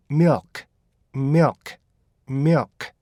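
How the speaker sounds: milk run together as one syllable, short vowel, clear final k. Shown as a demonstration. Teacher models how milk is pronounced, joined-up pronunciation. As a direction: say "milk" as a quick "myuk" with a crisp k. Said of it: "이렇게 붙여주면요".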